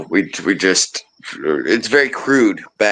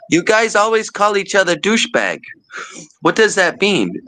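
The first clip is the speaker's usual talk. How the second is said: higher-pitched, lightly put-on Guatemalan accent; lightly imitated Guatemalan accent; 10 semitones higher than usual. Guatemalan coworker asking about kitchen slang, lightly imitated accent. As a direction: imitate a puzzled English learner with a slight Guatemalan accent. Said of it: "he had such a heavy accent".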